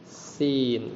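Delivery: "sin" with a stretched ee; teacher's elongated "sin"; long vowel. Shown as a demonstration. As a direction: draw out "sin" before the n. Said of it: "panjang ya".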